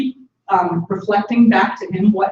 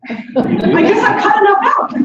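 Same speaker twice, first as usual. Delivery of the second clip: high, slow, put-on voice; drawn-out mock resignation; a high, slow voice, as if giving up; resigned self-quote; 14 semitones higher, 6 dB louder, slower than usual. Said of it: "I was like".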